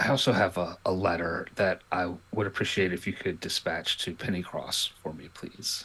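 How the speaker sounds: low, hushed, confidential tone. A player's character takes her aside so the rest of the party won't hear, in a lower voice. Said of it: "in a lower voice so the rest of the party doesn't hear".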